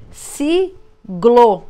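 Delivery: sigle blended slowly, trying the sound. Shown as a demonstration. Teacher testing whether sigle makes a word, trying it out. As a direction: try out sigle as a test word. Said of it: "Também não formou".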